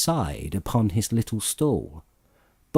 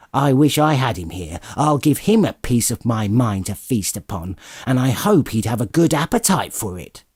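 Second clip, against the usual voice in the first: wife fuming at Scrooge, lightly voiced; mild indignation. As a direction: give him a piece of your mind.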